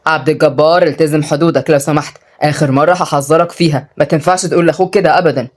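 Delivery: low, firm warning; lightly voiced strict man; stern. Oday warning Abdel Gabbar about his brother, stern. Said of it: "وعدي قال بصرامة".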